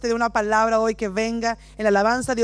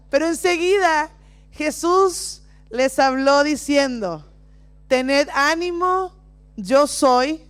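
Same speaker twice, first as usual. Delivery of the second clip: scripture reading; slower than usual. Acted. Reads Bible passage dramatically.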